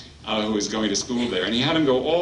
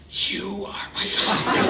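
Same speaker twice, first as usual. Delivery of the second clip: put-on higher, laughing child's answer; laughing retell; 9 semitones higher than usual. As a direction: say it through a laugh. Boy repeats, laughing retelling.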